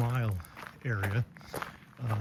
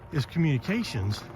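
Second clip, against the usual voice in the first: breathing hard while talking. Real, not acted. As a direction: talk between heavy breaths uphill. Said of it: "I'm a little out of breath".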